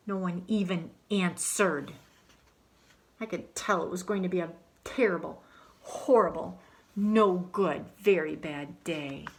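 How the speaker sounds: put-on lively first-person storytelling as a fed-up boy; story narration as Alexander. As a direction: tell it like a grumpy kid recounting his day. Reads in Alexander's voice.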